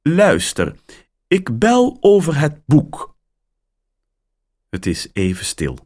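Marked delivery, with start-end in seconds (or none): 0.0-3.2 much higher, louder woman caller; surprised caller on the line; woman's voice. A narrator's reading. Caller greets Mia, higher and louder.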